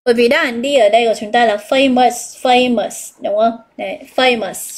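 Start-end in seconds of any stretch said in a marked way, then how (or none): 1.5-3.2 famous slowly, stress on FA; stress on first syllable. Shown as a demonstration. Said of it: "Chúng ta sẽ nhấn stress vào một". 4.1-4.8 slow famous, stress on FA; stress on first syllable. Shown as a demonstration. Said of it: "Chúng ta sẽ nhấn stress vào một".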